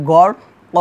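"গড় ক" with a lengthened final vowel; slow "গড়", then drawn-out "ক"; one-alif stretch. Shown as a demonstration. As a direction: hold "ক" long, without an n. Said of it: "এখানে এক আলিফ টান হবে".

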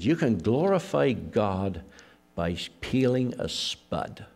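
slow, lightly imitated Scottish accent. Scotsman told to go to the Olympics, imitated Scottish accent. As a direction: put on a mild, drawn-out Scottish accent. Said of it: "in his Scottish accent".

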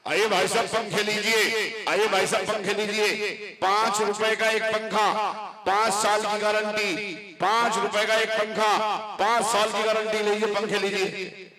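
lightly voiced hawker calling out his fans; street vendor calling. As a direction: call out like a fair vendor selling fans. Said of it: "आवाज लगा लगा कर पंखे बेच रहा था". (मेले में पंखे बेचते फेरीवाले की हल्की सी पुकार)

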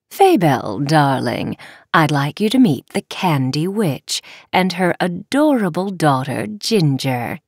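low, silky villainess mother; elegant dark fairy. Acted. Dark Fairy introduces guests.

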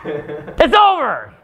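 "It's over!" stretched very slowly, despairing; drawn-out despair. Shown as a demonstration. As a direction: drag the words out like a lament. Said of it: "what does that do to my mood now".

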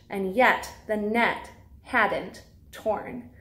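lively storybook read-aloud for little ones; reading to children. Acted. Teacher reads a Bible story to preschoolers in storybook voice.

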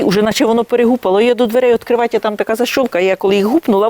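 ordinary talk

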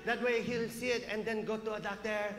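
lightly voiced mother playing nature-show host; measured, mock documentary commentary; documentary narrator mom. Mom narrates to camera outside son's room, documentary style. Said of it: "she's documenting the whole thing like she's, she's on Discovery".

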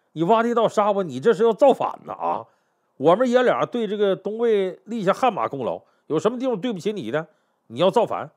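mildly acted accusation, building in force; indignant interrogation. General confronts the emperor in his palace, accusing. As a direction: press him with wronged indignation. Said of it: "高澄就进宫质问孝敬帝".

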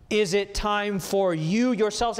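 "you" stressed in a pointed question. Shown as a demonstration. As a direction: lean hard on "you". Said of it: "there's an emphasis there".

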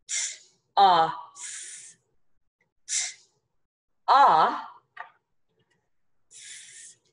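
"t, o, s" as separate sounds with long pauses; sounded out. Shown as a demonstration. Teacher breaks toss apart, sound by sound. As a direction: isolate t, short o, one hissed s. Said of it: "just one sound".

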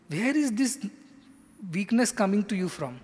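a teacher snapping a student out of it; mild mock scolding. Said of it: "so he sets the tone".

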